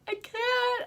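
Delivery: high, whimpering mock plea; scared refusal. Wife refusing the snake hunt, high scared plea. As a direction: squeak out a terrified refusal. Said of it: "I was like".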